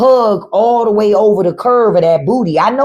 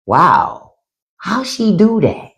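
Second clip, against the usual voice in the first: awed wow; slower than usual. Retold or imitated. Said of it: "I would just be like".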